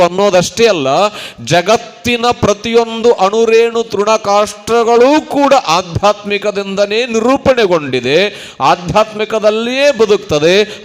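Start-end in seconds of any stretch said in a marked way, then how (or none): 1.4-10.8 sermon voice lifted and drawn out; declamatory preaching. Real, not acted. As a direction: proclaim it to the whole hall.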